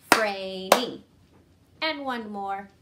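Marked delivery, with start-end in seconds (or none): 0.1-1.0 loud "Logan" in two beats; clapped syllables. Shown as a demonstration. Teacher clapping a staff name with pupils. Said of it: "Ready? Go".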